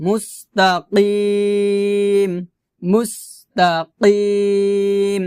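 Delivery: slow মুস্তাকিম with throaty q and long ee; measured recitation model of মুস্তাকিম; qaf pronunciation. Shown as a demonstration. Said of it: "এভাবে".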